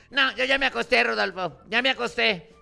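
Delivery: put-on loud whiny wife's refusal. Wife refusing husband from bed, loud and whiny. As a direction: whine it from bed, annoyed.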